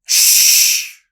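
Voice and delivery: urgent whispered shush; frantic whispered hush; sharp shush. Acted. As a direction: hush him fast. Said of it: "I say".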